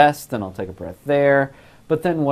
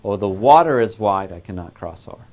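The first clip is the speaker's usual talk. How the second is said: "water" punched louder, the rest falling away; stress on WATER; 2 semitones lower, 5 dB louder than usual. Shown as a demonstration. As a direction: hit "water" as the key word, then drop off. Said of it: "what's the most important word of this phrase as I speak it?".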